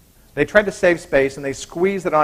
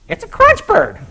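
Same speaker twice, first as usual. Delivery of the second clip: high, bright wifely announcement; proud wife; 5 dB louder than usual. Acted. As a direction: present the bird proudly, much higher. Wife proudly presents the bird.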